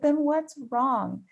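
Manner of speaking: high, slow, insistent question; acted mom panic. Mother pressing her crying daughter on the phone, high anxious voice. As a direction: stretch it out as an imitated worried mother. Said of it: "so even more panic".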